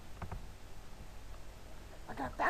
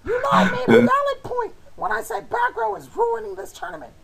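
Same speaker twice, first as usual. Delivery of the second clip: angry; 2 semitones higher, 6 dB louder than usual. Real, not acted. Arguing over the card game.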